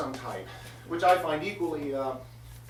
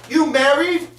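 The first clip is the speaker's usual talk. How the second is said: high, loud yell, second one slowed right down; losing her cool; 10 semitones higher, 12 dB louder, slower than usual. Retold or imitated. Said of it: "she starts to lose her cool".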